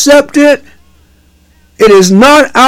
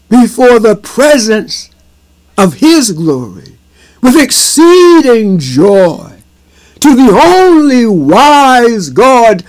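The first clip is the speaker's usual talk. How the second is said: benediction; slower than usual. Acted. Closing benediction.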